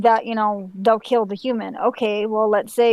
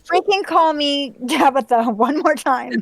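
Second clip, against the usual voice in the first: laughing threat; 4 semitones higher than usual. Real, not acted. Annoyed threat at a teasing friend.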